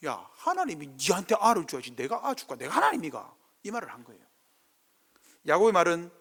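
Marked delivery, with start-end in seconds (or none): 0.1-3.4 Gyeongsang dialect. Acted. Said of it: "이 번역을 너무 얌전하게 했습니다".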